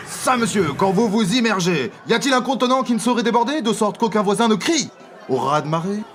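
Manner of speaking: hammy stage actor blustering; truculent. Acted.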